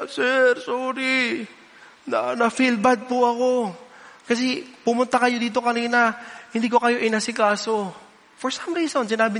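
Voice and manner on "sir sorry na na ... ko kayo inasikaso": a tearful sorry from the waitress; apologetic waitress. Retold or imitated. (mahinahong paumanhin ng umiiyak na waitress)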